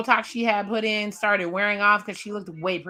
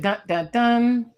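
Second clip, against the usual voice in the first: dun dun dun; 3 semitones higher, 3 dB louder, slower than usual. Pretend. Dramatic sound-effect chant.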